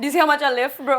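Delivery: loud bragging lifter bro voice; gym bro. Retold or imitated. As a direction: brag about your lifting, bro. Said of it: "gym bro exp-, impression".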